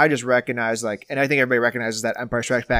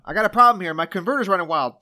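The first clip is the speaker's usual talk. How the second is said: higher, louder pilot in trouble; panicked pilot; 6 semitones higher, 5 dB louder than usual. Retold or imitated. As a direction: call it in like a stressed pilot. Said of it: "I'll say person one and person two".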